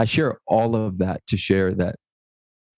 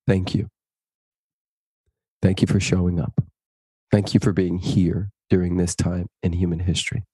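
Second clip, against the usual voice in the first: sincere thanks; 3 semitones lower than usual. Acted. Message to the world.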